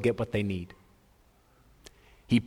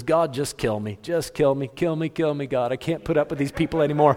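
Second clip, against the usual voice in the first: frustrated Moses; 3 semitones higher than usual. Retold or imitated. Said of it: "Moses is frustrated".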